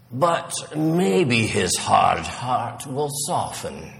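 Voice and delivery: lightly voiced sage turtle; a hint of a wise elder; hopeful old turtle. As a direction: reason patiently, pausing between phrases.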